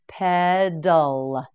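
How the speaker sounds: Pedal drawn out slowly, each syllable clear; slow, stretched model. Shown as a demonstration. Teacher modelling Pedal slowly for learners. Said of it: "teacher models the word slowly".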